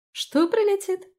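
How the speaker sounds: very high baffled question; puzzled. Acted. Felicia asks about karma, baffled. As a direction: ask baffled. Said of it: "не поняла Фелиция".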